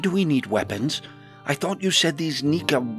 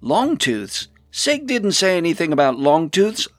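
higher, louder startled protest; raised-voice dismay; alarmed surprise; 8 semitones higher, 6 dB louder than usual. A narrator's reading. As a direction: repeat the word in disbelief, then protest loudly. Alarmed at unexpected new danger.

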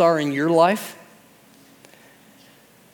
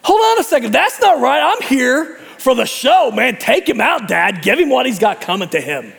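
high, loud heckling from the stands; high, loud mock heckling at a show; mock outraged fan; 6 semitones higher, 3 dB louder than usual. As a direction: yell like a bloodthirsty spectator.

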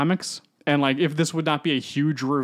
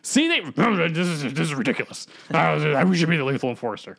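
Venom voice. Retold or imitated. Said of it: "Venom's like".

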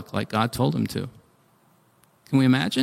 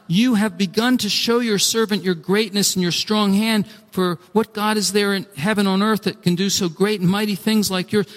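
earnest prayer, slightly raised pitch; pleading; 4 semitones higher than usual. Acted. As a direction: lay out an appeal to God. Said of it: "I pleaded with the Lord".

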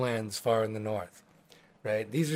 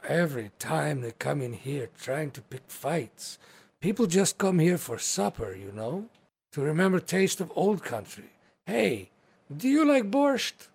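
orc hostess voice; 4 semitones higher than usual. Acted. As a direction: play the hearty orc hostess, a touch accented.

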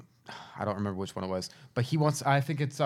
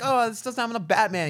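retold quote; 9 semitones higher than usual. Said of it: "I'm like".

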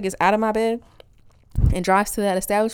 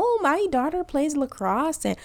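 white woman voice, Canadian-sounding; 3 semitones higher than usual. Retold or imitated. Mother bragging about her kids' sports, Canadian-sounding white woman. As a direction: put on a mild Canadian-tinged white woman voice. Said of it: "my white woman voice is a Canadian".

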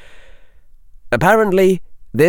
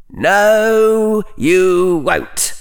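high, louder, flat contradiction; withering put-down; 10 semitones higher, 3 dB louder, much slower than usual. A narrator's reading. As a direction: shut him down coldly. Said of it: "said Slytherin".

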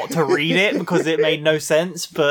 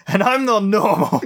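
laughing; 3 semitones higher than usual. Real, not acted. Laughing while reading promo aloud.

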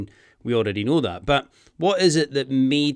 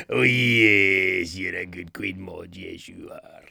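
dog talk fading to whisper; 5 semitones lower, slower than usual. Retold or imitated. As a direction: whisper sweetly to the doggy. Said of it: "makes her sound like a Doug".

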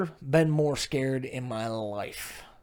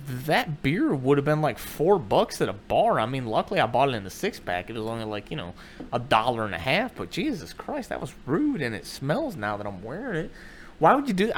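swooping, incredulous complaint; hurt disbelief. Acted. Husband to wife over spilled beer, disbelieving. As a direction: protest it, pitch rising toward the end. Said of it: "sat there in disbelief".

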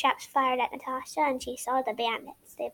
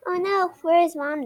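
mild exclamation, raised pitch and louder; exclaimed; 4 semitones higher, 6 dB louder than usual. A narrator's reading. Young detective looking for her mom, exclaiming. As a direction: exclaim it higher, with some force. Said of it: "Natasha ex-, exclaimed".

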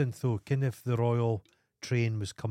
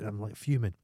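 ordinary talk, nothing marked

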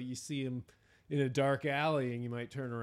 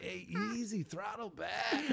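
much higher Maine voice, calling out a warning; Cy warning someone moving boats, in Maine; Cy's Maine accent; 9 semitones higher, 4 dB quieter than usual. Retold or imitated. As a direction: yell "Throttle back" like a Maine boat hand. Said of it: "I can try and do it".

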